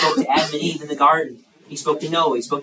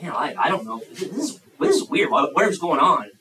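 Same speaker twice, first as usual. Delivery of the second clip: mock bewilderment. Preacher imagines the boy confused, acting mildly bewildered. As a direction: stumble through it, baffled. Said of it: "for Samuel to be like".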